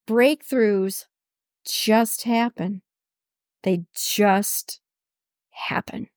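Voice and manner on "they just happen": whisper. Shown as a demonstration. To her listeners, echoing her point in a whisper. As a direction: breathe the word happen, no voice. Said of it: "whispered repeat of the same words".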